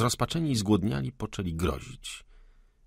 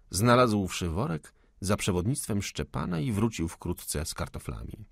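usual speaking voice

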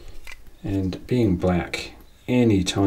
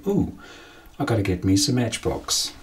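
1 excited collector; 2 semitones higher than usual. Pretend. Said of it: "would you say".

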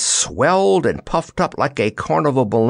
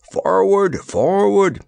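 high, insistent command; urging; 10 semitones higher, slower than usual. A narrator's reading. Soldier pushes Dorothy ahead of him, urging. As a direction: urge her onward. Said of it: "he urged".

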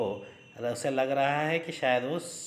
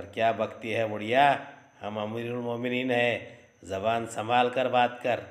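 frowning rebuke. Acted. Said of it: "कहता है तेवरिया चढ़ाकर".

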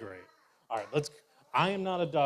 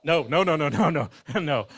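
loud protest; 6 dB louder than usual. Acted. Bear refuses being chew toy.

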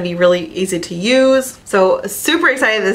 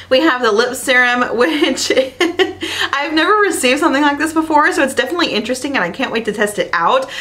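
high, fast and bright; excited; 5 semitones higher, faster than usual. Real, not acted. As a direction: rattle it off high with glee. Excited about lip serum.

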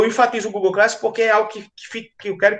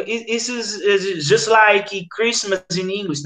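explaining in English; much slower than usual. Pretend. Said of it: "Aí você fica".

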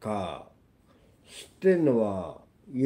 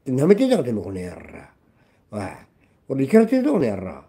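screaming rage; 5 dB louder than usual. Real, not acted. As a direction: scream a challenge in genuine fury. Continuing furious rant. (本気でブチ切れて叫ぶ)

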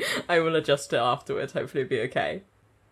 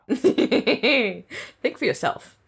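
laughing drawl; 6 semitones higher, much slower than usual. Real, not acted. Laughing at a line.

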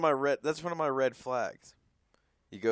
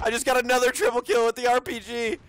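loud, higher victorious call; excited shout; 9 semitones higher, 8 dB louder than usual. Real, not acted. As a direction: call it out proudly. Excited gaming brag.

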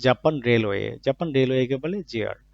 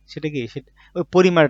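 ordinary talk, nothing marked

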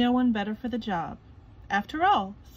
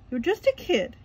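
lightly voiced boss, a touch higher; Mister Krabs; 7 semitones higher, 4 dB louder than usual. A narrator's reading. Mister Krabs telling SpongeBob, mildly voiced. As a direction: talk down to him a bit. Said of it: "he said".

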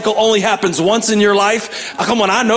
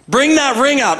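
higher called order; dad calling out; 8 semitones higher, 3 dB louder than usual. Retold or imitated. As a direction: shout the order across the yard. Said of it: "the dad yelling back on".

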